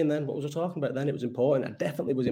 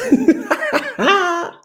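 burst of laughter; 7 dB louder than usual. Real, not acted. Laughing at drunk friend.

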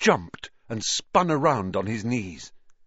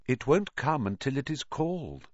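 calm; 4 semitones higher than usual. Acted. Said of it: "said Riddle calmly".

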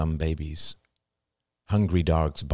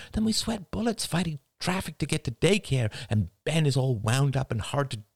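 a lightly voiced tired dad pleading, pitched up; weary young father; 7 semitones higher than usual. A narrator's reading. Husband explains the endless daily battle, in a strained, pleading voice. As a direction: lay out the exhausting day to her. Ian pleads with his wife.

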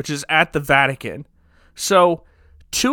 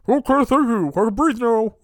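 a bit higher, meek grateful cardinal; lightly voiced cardinal; 7 semitones higher than usual. Cardinal thanking Langdon for the tube, lightly voiced and meek. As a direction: thank him like a meek rescued old man.

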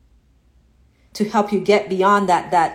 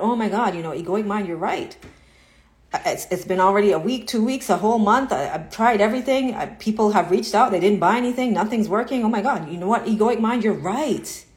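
mock defeated agreement. Coach imitating a student giving up to the ego, mock despair. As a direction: give in to the ego, mildly hammed-up. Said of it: "believe the egoic mind".

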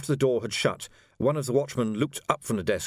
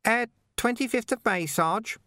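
much higher, hesitant and faltering; faltering Ping; 13 semitones higher than usual. Acted. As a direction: trail off unsure. Ping answers.

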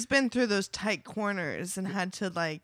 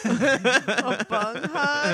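puzzled; 4 semitones higher, 4 dB louder, much slower than usual. Real, not acted. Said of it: "I thought I was experiencing dyslexia".

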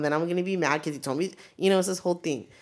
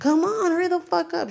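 much higher and louder, exasperated hurry-up; impatient mock urging; 14 semitones higher, 5 dB louder than usual. Impatient at slow worker.

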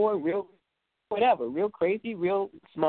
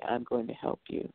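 soft promise; 7 semitones lower, 8 dB quieter than usual. Retold or imitated. Reassuring promise to troubled kid.

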